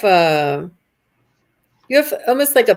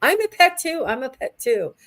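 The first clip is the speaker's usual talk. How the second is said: high, pleading voice for an envious pet; eager pet dragon; 11 semitones higher than usual. Acted. Reader speaks as the dragon longing to be petted, high and pleading. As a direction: plead higher, like a pet wanting love. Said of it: "and he's like".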